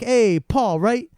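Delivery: retold chummy salesman opener; big salesman. Big guy greeting a customer, lightly acted salesman. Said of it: "It's this big guy".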